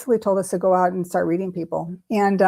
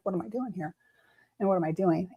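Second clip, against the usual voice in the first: soft, retold private thought; inner voice; 7 dB quieter than usual. Questioning herself in her mind before the family, hushed. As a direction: think it aloud, hushed. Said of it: "in my mind".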